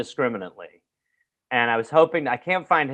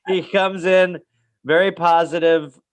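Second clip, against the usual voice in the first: laughing; 3 semitones higher than usual. Real, not acted. Laughing while reading report card.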